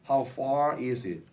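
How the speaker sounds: very slow "How far is it?" with each word separated; slow model phrase. Shown as a demonstration. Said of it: "여기서 얼마나 먼가요".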